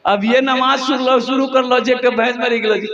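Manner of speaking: a touch of village dialect, lightly voiced; villager's lament. Villager lamenting his dead buffalo, lightly voiced. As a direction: moan it like a villager in dismay.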